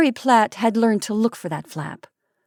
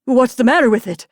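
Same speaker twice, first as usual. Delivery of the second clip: frightened question; 4 semitones higher, 6 dB louder than usual. Acted. Frightened husband.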